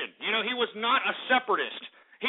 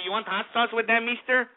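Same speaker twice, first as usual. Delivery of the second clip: mock Mexican accent; 2 semitones higher than usual. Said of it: "expecting for this idiot to say".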